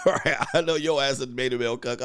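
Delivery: fast, laughing through the line; laughing repeat. Real, not acted. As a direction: crack up while saying it again.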